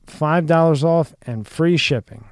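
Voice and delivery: ad read. Acted. Host reads sponsor tag over music.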